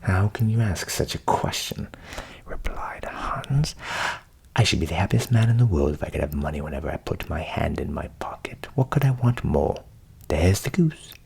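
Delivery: low voiced eager Hans.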